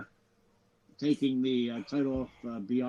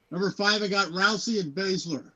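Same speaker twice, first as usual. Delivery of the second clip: loud announcing; 5 semitones higher, 3 dB louder than usual. Real, not acted. Drops the whisper, announces loudly.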